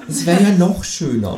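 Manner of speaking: lightly voiced high grumble; a grumpy retort; grumbling kangaroo. A narrator's reading. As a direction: kangaroo grumbling about paying. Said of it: "meckert das Känguru".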